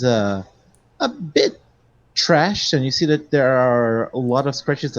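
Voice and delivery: game master's measured scene description; scene setting. A narrator's reading. Game master showing players a ransacked museum, scene setting. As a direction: describe the room to players, lingering on details.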